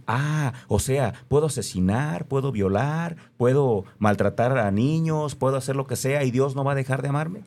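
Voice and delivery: sarcastic mock quote. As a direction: drag it out like a scornful parody.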